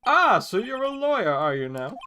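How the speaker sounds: put-on pompous old attorney greeting a visitor; Grossberg voice. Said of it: "Grossberg's voice".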